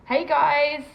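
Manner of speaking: bright loud hello in a put-on French; loud mock French greeting. Shown as a demonstration. Vlogger greeting her viewers in French, loud and hammed-up. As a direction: belt out a cheesy bonjour. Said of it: "What is it?".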